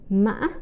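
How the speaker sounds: "mã." broken, then jumping high. Shown as a demonstration. Teacher showing the sixth tone, high broken. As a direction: break "mã." midway and flip it up high. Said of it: "or high broken tone".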